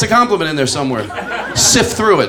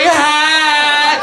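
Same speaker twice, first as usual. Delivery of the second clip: mock shout; 8 semitones higher than usual. Comic acting out a bedroom standoff, mock shouted call. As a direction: bark it out like a startled call. Husband yells.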